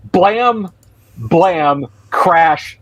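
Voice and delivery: high-pitched spoken sound effects; comic-book bangs in words; voiced crash effects. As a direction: punch out each impact word separately. Game master imitates fight noises.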